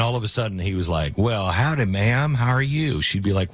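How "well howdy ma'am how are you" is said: lightly put-on Texas drawl; Texas accent. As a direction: greet in a mock-Texan drawl, stretched out. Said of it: "he had no Texas accent and".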